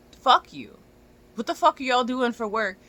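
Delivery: loud, high, cursing outburst; angry shout. Real, not acted. Cursing the client who books last-minute, loud and angry. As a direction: spit it out at the client.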